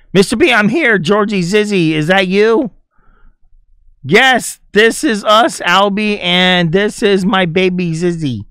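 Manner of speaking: high playful character voice, voicing the game figures; cutscene character voice.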